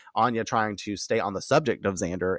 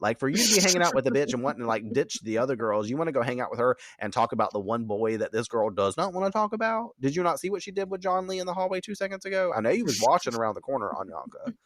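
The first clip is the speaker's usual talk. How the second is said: sassy rant; 4 semitones higher than usual. Retold or imitated. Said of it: "she's a little".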